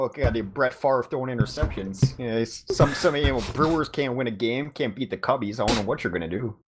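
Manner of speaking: lightly put-on Wisconsin accent; mock Wisconsin accent. Shown as a demonstration. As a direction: grumble like a Wisconsin sports fan, accent on. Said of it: "that's my Wisconsin accent".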